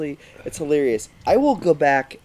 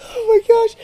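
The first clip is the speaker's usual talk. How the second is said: laughing till crying; 7 dB louder than usual. Real, not acted. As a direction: squeeze the words out between fits of laughter. Cracking up rereading the question.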